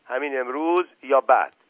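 understated shout at the servant; shouting over him. Acted. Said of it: "فریاد زد".

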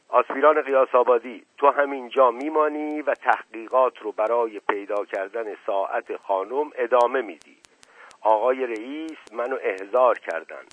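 a curt, mildly stern order to his subordinate; sharp tone. Acted. The officer orders his assistant to stay, mildly sharp. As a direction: snap out orders, understated. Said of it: "با لحن تندی گفت".

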